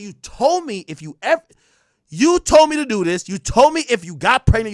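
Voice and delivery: retelling how he confronted her, with heat; mock angry. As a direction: throw her own words back at her. Retold argument with her.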